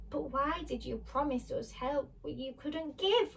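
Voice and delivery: a touch of sad reproach; mildly sad. Acted. Dorothy questions the wizard's broken promise, sad. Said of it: "feeling very sad".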